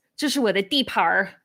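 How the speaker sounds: a quick Beijing line with a rolled 儿 on 地盘儿; Beijing accent. Shown as a demonstration. Showing viewers the Beijing erhua, casual Beijing accent. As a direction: toss off a Beijing one-liner, curling 地盘儿. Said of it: "Beijing accent".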